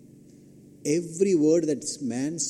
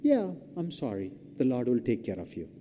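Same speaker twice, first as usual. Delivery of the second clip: softer, falling, hurried-off condolence; mock uninterested sympathy; 3 semitones lower, 6 dB quieter, faster than usual. Preacher imitating an uncaring comforter, mock uninterested sympathy. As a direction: brush them off with a stock condolence. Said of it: "really interested rather than".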